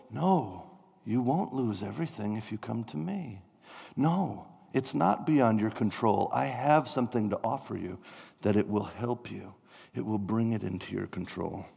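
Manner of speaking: soft, comforting promise; calm a panicked person gently; quiet saviour offering help; reassuring messianic voice. Acted. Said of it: "such a voice as a messianic voice".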